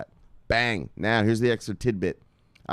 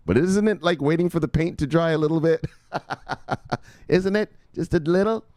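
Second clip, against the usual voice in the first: laughing tease; 6 semitones higher than usual. Real, not acted. Forex trader teasing a stock guy, laughing. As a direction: rib him while cracking up.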